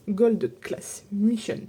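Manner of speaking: English name in a French accent; halting, French-accented attempt at English; bad English accent. Real, not acted. Showing viewers the watercolour set, bad English accent. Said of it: "Avec mon accent pourri".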